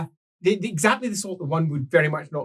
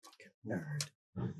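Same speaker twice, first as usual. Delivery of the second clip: much lower and far softer, slow; muttered aside; 20 dB quieter, much slower than usual. Acted. Player sneering at the scholar, low muttered aside. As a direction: toss it off under your breath. Under-breath jab.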